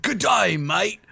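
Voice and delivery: put-on a rough stab at an Australian accent; mock Australian accent. Teasing the guest about accents, mock Australian accent. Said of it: "That was Australian, exactly".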